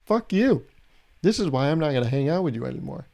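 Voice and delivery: high-pitched indignant complaint, settling at the end; hammed-up huffy outburst; mock anger. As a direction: protest like a fed-up customer. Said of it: "Do they just get angry".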